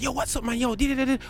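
put-on high-pitched voice. Shown as a demonstration. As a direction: pitch it right up for a playful demo. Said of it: "my high voice".

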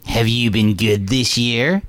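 slow, looming evil grandpa. Retold or imitated. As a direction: drag it out to menace the boy. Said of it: "just the evilest grandpa ever".

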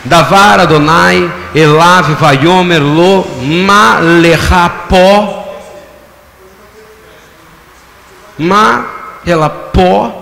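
Hebrew phrase drawn out word by word at a very slow pace; each Hebrew word stretched and separated; slow Hebrew reading. Shown as a demonstration. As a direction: spell out the Hebrew slowly for the congregation. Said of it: "Em hebraico?".

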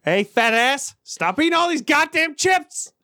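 mock telling-off, climbing high; scolding himself. Man telling himself off over chips, mock scolding. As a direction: scold yourself with rising, hammed-up exasperation. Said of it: "I have to tell myself".

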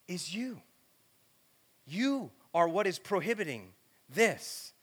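slow, drawn-out divine appeal; lightly voiced God, slow and imploring; God pleading. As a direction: plead patiently, stretching the key words.

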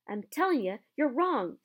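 loud, high heated protest; hotly. Acted. Hagrid arguing back at Hermione, heated and loud. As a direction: insist hotly he's wrong. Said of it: "said Hagrid hotly".

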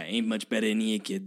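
a hint of gravelly Brooklyn guy; Brooklyn smoker. Co-host echoing the film line, Brooklyn smoker imitation. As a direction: imitate a New York smoker from a movie. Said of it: "low, gravelly smoker voice of some guy from Brooklyn".

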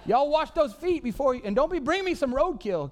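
begging the ravens, half laughing; laughing plea. Pretend.

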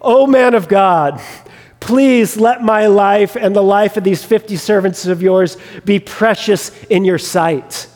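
mild, measured pleading; imitated entreaty. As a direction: act out a captain begging for his life. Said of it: "he entreats him".

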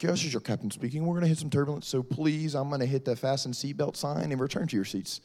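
a hint of captain on the intercom; airline captain. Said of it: "The captain comes on".

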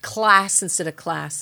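"Class instead of class" with slow stress on the Northern English L. Shown as a demonstration. Guest demonstrating Northern English L to host. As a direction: contrast the Northern English L slowly.

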